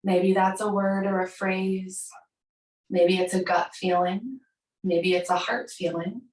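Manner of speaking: unhurried yoga nidra guidance with long pauses; guided meditation. Acted. Yoga teacher guides class to find an intention, measured meditation voice. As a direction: guide them inward, phrase by phrase.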